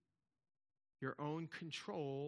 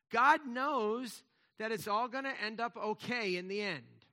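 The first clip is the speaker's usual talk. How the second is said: louder and higher proclamation; triumphant preacher's call; ringing assurance; 6 semitones higher, 9 dB louder than usual. Real, not acted. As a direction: declare it with full conviction. Confident proclamation.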